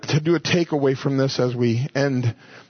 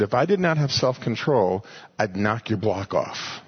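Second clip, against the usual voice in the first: stern, calm father; 5 semitones lower than usual. Retold or imitated. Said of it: "he said it sternly".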